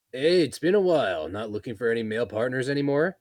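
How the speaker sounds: put-on loud, high, boisterous pub drunk; rowdy patron voice. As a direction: call out like a rowdy regular.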